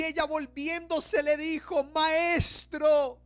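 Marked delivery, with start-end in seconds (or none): 1.8-3.2 higher-pitched cry of recognition; raised, stretched exclamation of recognition; acted exclamation. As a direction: call out on suddenly recognizing your teacher. Mary recognizes Jesus, cries out.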